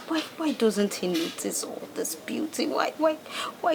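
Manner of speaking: soft breathy lament; whisper. Acted. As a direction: confide your hurt softly. Lamenting softly.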